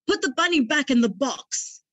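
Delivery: quoting Nicolas Cage's movie line in a weak put-on voice; Nicolas Cage impression. Quiz host quotes a Nicolas Cage line, lightly imitating him. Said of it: "I didn't do the accent really well".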